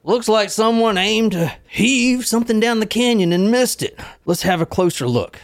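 hammed-up California accent, pitched high. Reading the newspaper character's line to the co-host, mock California accent. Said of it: "That was California accent".

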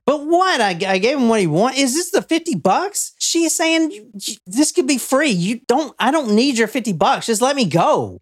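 high, rushed panicked begging; woman begging her captor to let her go; desperate pleading. Acted. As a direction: plead for your life, voice climbing.

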